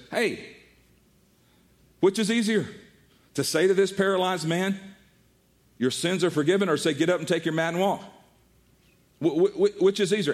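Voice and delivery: challenging Jesus. Retold or imitated.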